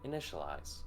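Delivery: lightly voiced alien AI, cold and clipped; calm robotic symbiote speaking in your head; alien machine voice.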